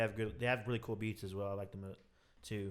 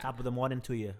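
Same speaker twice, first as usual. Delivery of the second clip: bad Irish accent. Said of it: "that was a terrible accent".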